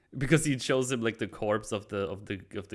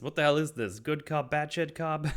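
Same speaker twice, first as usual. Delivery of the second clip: Penguin voice; 7 semitones higher, 3 dB louder than usual. Retold or imitated. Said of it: "Penguin says".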